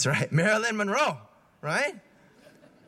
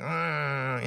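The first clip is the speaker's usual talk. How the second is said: low grumpy growl, lightly done; mock hungry growl; 5 semitones lower than usual. Preacher showing how grumpy he gets when hungry, mock growl. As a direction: growl like a cranky hungry kid. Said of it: "I'm like".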